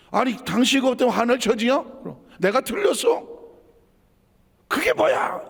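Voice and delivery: high, indignant challenges; acted marital quarrel. Spouse challenging the other's right to be angry, indignant. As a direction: argue back, pitch climbing to an outraged peak. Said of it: "여기도 화가 크고".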